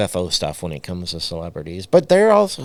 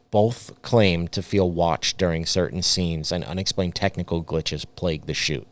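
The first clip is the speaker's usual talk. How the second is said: reading a script aloud; spooky documentary read; podcast narration. Acted. Reads scripted podcast segment.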